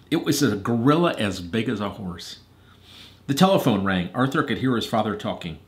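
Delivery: measured, expressive storytelling; story narration. A narrator's reading. Reader telling Hadley and Eliza Arthur's story, narrating. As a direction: read a storybook aloud to children.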